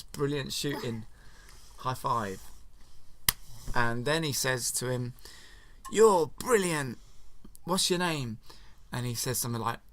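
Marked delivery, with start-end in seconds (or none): 5.9-8.4 delighted praise. Retold or imitated. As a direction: lay on the admiration. Poe praising gunner.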